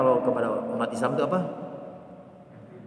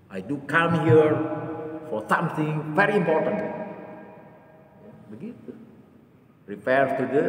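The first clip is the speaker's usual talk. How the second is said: English speech; slower than usual. Retold or imitated. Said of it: "Pakai bahasa Inggris dia ngomong".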